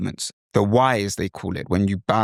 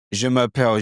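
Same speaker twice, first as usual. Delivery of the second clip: je m'appelle in a British accent; English-accented French. Shown as a demonstration. Teacher contrasting accents for learners, English-accented French. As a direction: introduce yourself in English-sounding French. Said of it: "So the bonjour is English".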